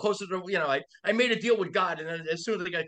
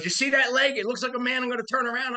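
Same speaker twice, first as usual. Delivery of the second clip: mock stubborn captain, pitched up and louder; gruff old captain; 7 semitones higher, 4 dB louder than usual. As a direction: play the stubborn veteran skipper. Veteran captain's stubborn reply.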